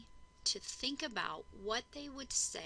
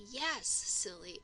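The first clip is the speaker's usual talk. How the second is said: slow modeled reply; much slower than usual. Shown as a demonstration. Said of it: "then they can say".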